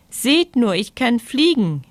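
relieved. Acted.

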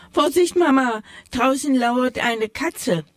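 a mock-horrified warning cry. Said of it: "entsetzt riefen die Mäusekinder".

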